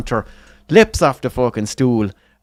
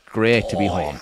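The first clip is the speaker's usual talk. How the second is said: low, soft, satisfied murmur; settled, quietly relieved; contented sigh; 5 semitones lower, 3 dB quieter than usual. Acted. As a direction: say it like savouring a first pint. Contented man sipping his pint.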